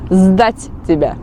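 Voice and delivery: Сдать тебя said slowly, stress on Сдать; slow, clear Сдать тебя falling at the end; slow model phrase. Shown as a demonstration. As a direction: spell out Сдать тебя for the learners. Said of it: "How do they report you?".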